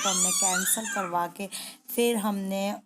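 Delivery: speaking through real tears; tearful. Real, not acted. Recalling the cancelled train, crying. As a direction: voice catching on the sobs as she retells it.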